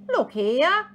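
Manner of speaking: high, loud, yawny interjection; sleepy storybook koala butting in; yawning koala. Acted. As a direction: stretch the words through a mock yawn. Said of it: "he yawned".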